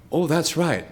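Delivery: high and loud, laughing; laughing realisation. Retold or imitated. Waiting in her house, struck by her fame, laughing awe. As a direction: act out the sudden awe.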